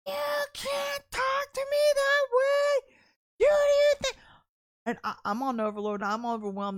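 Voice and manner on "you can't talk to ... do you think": high, loud furious shout; screaming man. Retold or imitated. Young man in the deli screaming at Missy, furious shout. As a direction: scream it back at her, way up high. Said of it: "he starts screaming at me".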